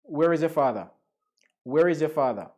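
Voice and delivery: light Jamaican-accented English. Shown as a demonstration. Teacher demonstrating sentences for students, Jamaican accent. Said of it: "let's practice the Jamaican accent".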